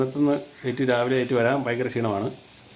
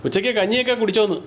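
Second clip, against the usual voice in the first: raised, higher-pitched repeat of a question; higher voice for someone hard of hearing; repeating for poor hearing; 7 semitones higher than usual. Real, not acted. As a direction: lift the pitch so the listener catches it. Repeats for listener who didn't hear.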